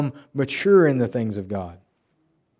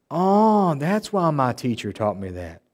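dawning realization; slower than usual. Retold or imitated. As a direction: act out the penny dropping. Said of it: "comes in a realization of".

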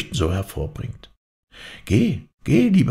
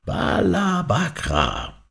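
calling loudly; 9 semitones higher, much slower than usual. A narrator's reading. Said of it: "rufe mit lauter Stimme".

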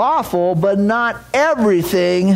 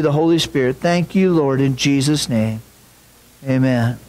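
lower, hushed prayer voice; 3 semitones lower than usual. Acted. Pastor praying for the congregation, lower and reverent. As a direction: pray earnestly before the sermon.

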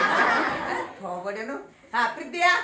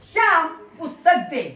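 louder call to a pupil, श्याम stressed; 6 dB louder than usual. Shown as a demonstration. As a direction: call श्याम across the room. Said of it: "श्यामला आवाज दिला". (मोठ्याने हाक मारत)

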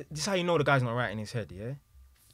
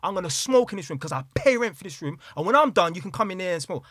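mildly heated, pitched-up retort; retold snapping; 5 semitones higher, 3 dB louder than usual. Son laying down rules for his room, retold indignant rant. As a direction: imitate an indignant argument, voice raised a little. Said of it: "My man snapped".

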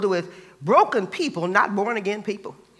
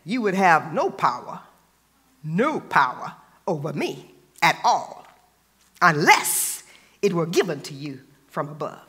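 calm Jesus voice; 5 semitones lower than usual. A narrator's reading. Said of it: "And then Jesus said".

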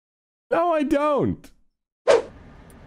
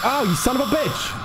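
startled curse; 10 semitones higher than usual. Real, not acted. Jump scare outburst.

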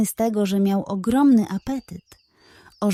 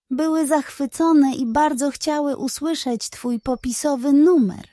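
flattering pug. Acted.

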